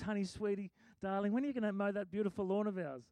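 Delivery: soft, sugary coaxing; sweet wife voice. Retold or imitated. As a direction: coax him sweetly. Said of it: "She doesn't say it like that".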